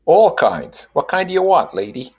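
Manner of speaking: high, loud hawker selling puppies; street dog seller. A narrator's reading. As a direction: pitch the seller up, pushing a sale. Dog seller figure voiced.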